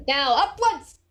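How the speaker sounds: mock-epic call to charge; rally them upwards with a big cry; triumphant battle cry, hammed up; heroic rallying cry.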